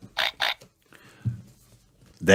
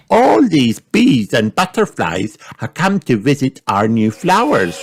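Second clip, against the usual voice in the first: put-on high, bright little girl pig; Peppa voice; 8 semitones higher than usual. A narrator's reading. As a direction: play young Peppa, eager. Peppa speaks.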